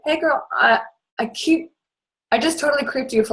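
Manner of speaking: put-on high-pitched girly hello; acted gushy greeting. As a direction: play a friendly fangirl opening a message. Acted gushing message to stranger.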